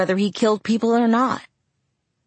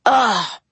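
frustrated groan; 5 semitones higher, 4 dB louder than usual. Acted. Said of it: "he groaned".

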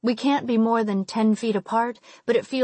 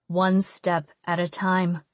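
calm reassuring; 2 semitones lower, slower than usual. Acted. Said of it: "he says".

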